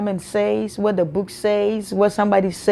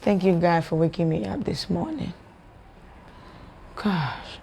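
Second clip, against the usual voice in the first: soft, listless morning prayer; low-energy thanks; 9 dB quieter than usual. Shown as a demonstration. Believer thanking God for waking them, without energy. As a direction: let it sink away, quieter and quieter. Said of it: "You see that energy?".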